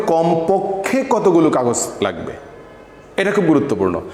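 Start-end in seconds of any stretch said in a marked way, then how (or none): 0.1-2.3 slow, weighted কমপক্ষে কতগুলো; emphatic repeat. Shown as a demonstration. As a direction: repeat it slowly so the word sticks. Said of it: "আমি আবারও বলি".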